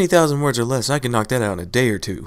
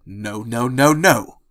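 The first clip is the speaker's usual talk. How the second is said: louder, panicked refusal; 3 dB louder, much slower than usual. Acted. Andrew frantically refusing Pinkie's idea, panicked. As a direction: stop her before she finishes.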